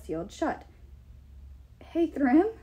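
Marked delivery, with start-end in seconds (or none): 1.8-2.5 high squeaky call; Mickey Mouse. A narrator's reading. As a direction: pitch it up like a cartoon mouse. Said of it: "unfortunate resemblance to Mickey Mouse's".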